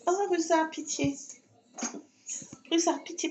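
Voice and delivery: high, pleading cries to the cat. Real, not acted. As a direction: beg the cat to stop. Cat climbing on her legs, pleading.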